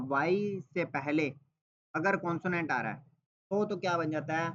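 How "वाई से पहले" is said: slow emphasis. Shown as a demonstration. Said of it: "एक चीज़ याद रखना".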